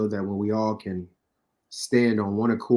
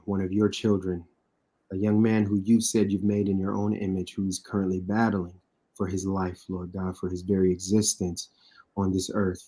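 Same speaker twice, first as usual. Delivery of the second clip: steady earnest spoken prayer; heartfelt prayer for an injured young player. Acted. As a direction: pray it out sincerely, addressing the Lord.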